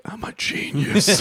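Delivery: gleeful mock boast; self-satisfied genius. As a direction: crow it slowly like a proud inventor. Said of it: "was like".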